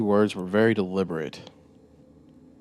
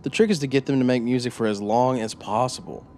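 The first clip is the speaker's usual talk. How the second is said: higher, louder, eager confession; proud storyteller voice; 4 semitones higher, 4 dB louder than usual. Acted. Narrator-character boasts to interrogator.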